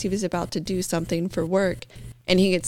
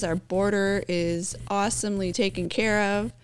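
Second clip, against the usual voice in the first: dripping with mock praise; sarcastic. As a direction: say it all sarcastically, pretending it's great. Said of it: "Sorry for all the sarcasm".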